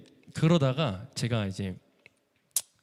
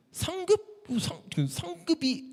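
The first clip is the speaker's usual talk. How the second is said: puzzled surprise; much slower than usual. Retold or imitated. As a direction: wonder what the word means. Puzzled at an unknown word.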